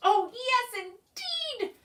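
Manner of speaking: high, eager reply. A narrator's reading. Hungry pig eagerly accepts, high and eager. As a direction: jump at the offer. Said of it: "replied Pinkerton".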